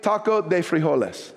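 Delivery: taco de frijoles with a Spanish accent. Shown as a demonstration. Pastor showing off Spanish while reading an email, Spanish accent. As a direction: put on a Spanish accent for the food's name. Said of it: "That was a pretty good accent".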